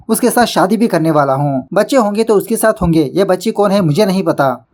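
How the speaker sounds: a touch of disbelief, brushing it off; shocked denial. Retold or imitated. Anil denies the child to the officer, mildly shocked. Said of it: "वो अनिल तो shock में रह जाता है".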